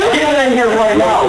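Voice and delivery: slow, high-pitched insistence; angry demand. Real, not acted. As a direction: demand it drawn out and heated. Suspect angrily demands his attorney.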